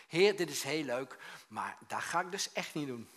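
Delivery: mock-indignant refusal, starting loud; loud protest. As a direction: object loudly to God, then ease off. Acted protest to the Lord. (luid tegensputteren)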